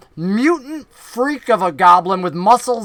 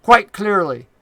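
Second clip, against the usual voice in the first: lightly voiced southern goblin; a touch of southern scorn; Finch, southern accent. Goblin scorning strangers in the north, mild southern-accented sneer. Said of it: "the goblin from the north with the southern accent".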